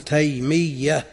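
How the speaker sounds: تيمية with a doubled final ya. Shown as a demonstration. Teacher giving a like-sounding example, doubled ya. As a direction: press the last ya of تيمية double. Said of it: "مثل ما تقول تيمية".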